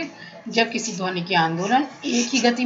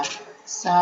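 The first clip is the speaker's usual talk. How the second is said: softly intoned, held note; 3 semitones lower, 3 dB quieter than usual. Shown as a demonstration. Teacher showing students a sound that won't carry far, softly. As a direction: sing the syllable gently, held back. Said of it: "सा को धीरे से बोला".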